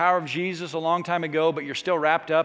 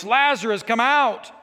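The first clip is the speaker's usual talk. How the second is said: calling Lazarus out, a bit raised; a modest call into the tomb; mild retold shout; 4 semitones higher, 3 dB louder than usual. Preacher retelling Jesus calling Lazarus out, mildly raised call. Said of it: "he cried out in a loud voice".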